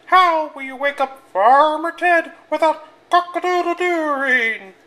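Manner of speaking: very high, loud fussing hen; worried clucking hen asking. Acted.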